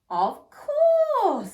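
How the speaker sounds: high, loud eager agreement; Miss Rat agreeing. A narrator's reading. Storyteller voicing Miss Rat, high and loud. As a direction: chirp it out brightly as the rat. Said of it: "said Miss Rat".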